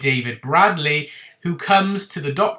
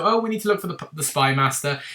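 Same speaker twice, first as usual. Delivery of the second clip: breezy offhand. Retold or imitated. O tossing the line to the Doctor, breezy and offhand. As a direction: toss it off like it means nothing. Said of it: "he said it so soiree and just so".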